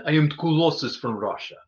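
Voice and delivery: lightly hammed Russian accent; Colossus from Russia. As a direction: quote the cartoon hero with a Russian accent. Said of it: "That's a line from the show".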